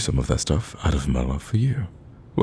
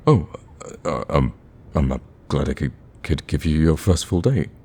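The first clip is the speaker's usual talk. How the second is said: flustered. Acted. Speaker answering their date's thanks, flustered. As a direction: fumble for words, caught off guard.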